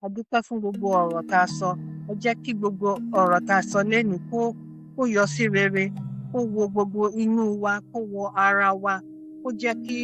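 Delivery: measured, reverent closing prayer; an elder's spoken blessing; Yoruba prayer. Real, not acted. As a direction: pray aloud in Yoruba, phrase by phrase. Elder prays in Yoruba to close.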